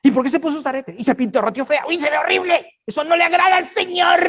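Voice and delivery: high, rising mock scold ending in a shout; scolding church mom. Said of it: "Las viejitas con las mamás". (regaño burlón de mamá de iglesia, cada vez más agudo y fuerte)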